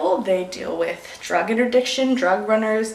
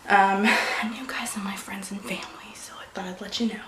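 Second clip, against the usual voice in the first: choked-up real whisper, much softer; emotional whisper; 5 dB quieter than usual. Real, not acted. Wife telling viewers about the Coast Guard, whispering emotionally. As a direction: whisper it, close to tears. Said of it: "I'm really emotional about this".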